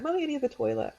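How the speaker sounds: put-on high, childlike voice of a small daughter; little girl voice. Daughter asking mum for the toilet, high childlike voice. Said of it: "she was like".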